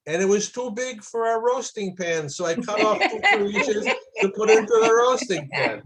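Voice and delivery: put-on old Russian grandmother accent, lightly done, with a laugh at the end. Grandmother explaining the roast to her grandson, in a light Russian accent. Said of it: "in her Russian accent".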